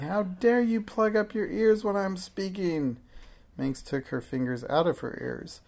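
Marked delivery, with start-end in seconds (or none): 0.0-3.0 high, scolding witch tone; angry witch voice. A narrator's reading. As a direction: scold the child like a cross witch. Witch voice held in dialogue.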